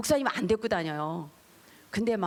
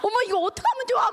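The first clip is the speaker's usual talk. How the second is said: high, louder alarmed wail; panicked exclaim; 13 semitones higher, 5 dB louder, faster than usual. Retold or imitated. Frightened girl panicking over the twisting face, high and loud. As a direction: sound completely flustered and scared. Frightened daughters during deliverance.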